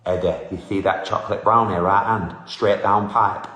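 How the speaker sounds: a lightly done Sheffield Kell Brook voice; answering a fan request, a light Sheffield Kell Brook voice; Kell Brook impression. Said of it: "Kell Brook would be something like".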